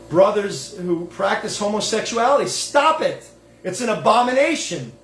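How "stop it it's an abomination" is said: much higher, a sharp stern command; stern rebuke. Pretend. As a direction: scold them as the rabbi once scolded him. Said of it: "So I could say it to my Gentile or Jewish".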